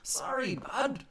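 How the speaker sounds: high, slow, loud mock politician; hammed-up self-righteous politician shouting; pompous politician. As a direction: politician declaiming his noble duty, hammed up. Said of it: "the subtext is".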